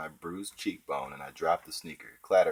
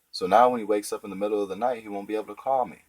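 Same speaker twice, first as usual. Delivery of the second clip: anxious rush; 4 semitones higher, 5 dB louder, faster than usual. Acted. Craig panicking about his brother.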